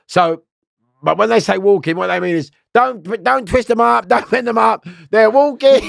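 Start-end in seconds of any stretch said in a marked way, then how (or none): 2.7-5.8 high, raised-voice warning; imitated officers shouting instructions; called-out order. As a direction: call it out urgently to the others.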